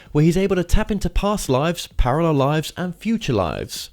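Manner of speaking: measured, presenterly broadcast read; show host introduction. Acted. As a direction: open the show like a radio host, announcing the guest.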